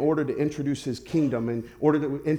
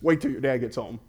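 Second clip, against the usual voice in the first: stern prophet warning; 5 semitones lower than usual. Retold or imitated. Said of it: "Here's how we would say it".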